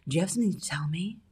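quick, sing-song scolding question; a mum cross-examining her child; mothering tone. Retold or imitated. Mocking how women mother their men, scolding. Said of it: "talk to friends".

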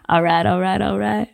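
easy Texan slur; McConaughey impression. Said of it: "Isn't that how he says it".

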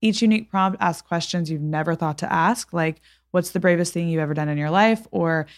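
measured, scripted sponsor read; podcast ad read. Acted. Host telling listeners about a gift sponsor, ad read. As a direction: read the sponsor copy with even, deliberate phrasing.

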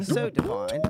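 squeaky high hype-man echo of the last words; hype echo squeal. Acted. Hype man echoing his friend's rap line, squealed high.

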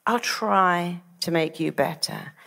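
slow, noncommittal promise; tentative doctor. Retold or imitated. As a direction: offer a hesitant promise, slowly. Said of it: "are very different to, Well, I'll try".

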